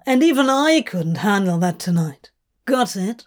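lightly voiced demon, grumbling; an irritated character's voice, mildly put on; exasperated demon. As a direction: complain with mock-weary exasperation. Voices Crowley in dialogue.

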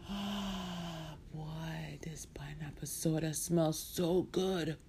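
soft, contented opening sigh; savouring. Acted. Marcia sniffing her pineapple soda, savouring it. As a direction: breathe in the smell with relish.

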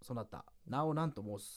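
slow, low, archaic solemnity; solemn ancient spirit. Acted. Supposed spirit asks partner's name, solemn and slow. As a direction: ask slowly like an ancient lord.

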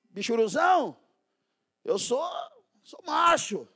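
imitating a hothead who won't be told; hammed-up tough guy; tough guy bragging. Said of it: "os caras falam".

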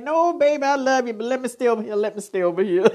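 high, fast, tender refusal; departed loved one answering from the other side; gentle reply from beyond. Retold or imitated. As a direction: sweetly tell them you're staying. Dead ancestors answering the living.

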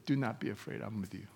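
voice of God. Retold or imitated. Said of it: "He said".

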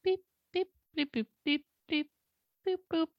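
high mock dialing beeps; phone dial beeps. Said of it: "let me call them up".

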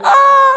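high, loud rider's scream; sudden piercing mock shriek; imitated scream. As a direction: scream like someone on a coaster. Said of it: "and you hear".

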